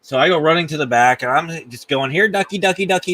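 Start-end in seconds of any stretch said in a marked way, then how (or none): 2.1-3.1 mock yelling. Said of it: "just yelling and screaming".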